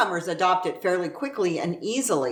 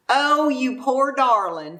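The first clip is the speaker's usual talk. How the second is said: pitying poor darling; 5 semitones higher than usual. Retold or imitated. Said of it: "is loosely translated as".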